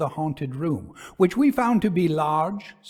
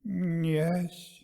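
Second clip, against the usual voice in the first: mumbling; 2 semitones higher than usual. Acted. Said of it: "a strange mumbling voice".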